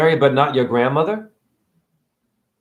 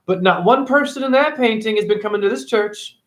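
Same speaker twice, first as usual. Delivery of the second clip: polite churchgoer's request; 5 semitones higher than usual. Retold or imitated. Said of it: "and tell them".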